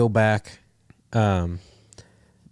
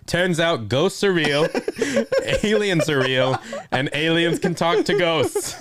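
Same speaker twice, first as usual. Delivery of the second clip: laughing; 6 semitones higher than usual. Real, not acted. Absurd revelation, laughing through it.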